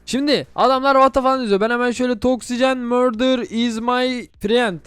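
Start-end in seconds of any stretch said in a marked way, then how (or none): 2.2-4.8 broken English. Pretend. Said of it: "Mükemmel İngilizcemi çalıştırdım".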